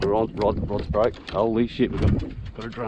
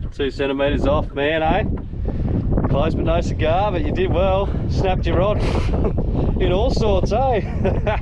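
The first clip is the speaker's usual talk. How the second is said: higher, louder teasing with laughter between words; laughing tease; 6 semitones higher, 4 dB louder, slower than usual. Real, not acted. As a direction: rib your mate, laughing at his luck. Teasing mate over near miss.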